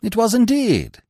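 mild, gracious assent; cordial agreement. A narrator's reading. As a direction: agree amiably, quite unruffled. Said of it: "Smith agreed cordially".

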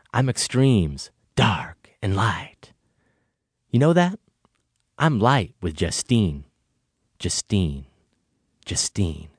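drawn-out, halting monologue delivery; deliberate hammy soliloquy, phrase by phrase; very slow. Acted. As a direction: intone it slowly with long dramatic pauses. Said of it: "Have you ever talked that slowly".

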